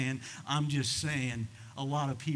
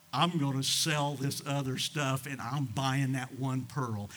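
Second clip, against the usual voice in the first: slow resolve; slower than usual. Acted.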